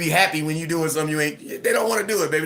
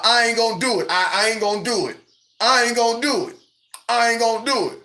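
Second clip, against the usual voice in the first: higher, repeated pouty refusal; stubborn whiny kid; 5 semitones higher than usual. Retold or imitated. Father imitating his son refusing a chore, higher and pouty. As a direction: dig in like a sulking child.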